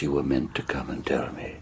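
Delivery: low, hushed sinister hint; hushed menace. Acted. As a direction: let it hang ominously, softly. Sinister old man confirms.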